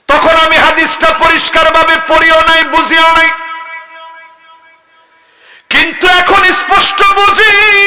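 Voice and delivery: high, chanted declaration; full-force preaching. Real, not acted. Preacher admitting he now understands the hadith, high chanted declaration. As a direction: ring it out high, lifting the end.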